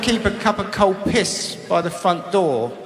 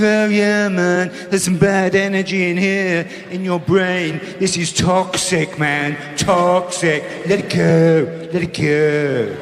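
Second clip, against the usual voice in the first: mocking healer; slower than usual. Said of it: "He was like".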